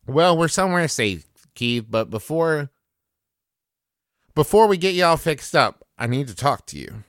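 put-on folksy, measured West Virginia accent. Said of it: "I'm falling into a West Virginia accent".

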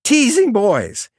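put-on high, slow, drawn-out shriek of a little girl; screaming child. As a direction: shriek it at the boys like a fierce three-year-old. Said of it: "Dixie stands up again and screams".

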